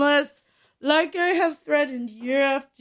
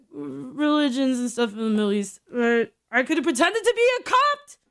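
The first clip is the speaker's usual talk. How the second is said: ordinary talk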